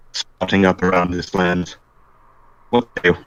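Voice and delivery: a solemn father pleading his case; priest voice. Acted.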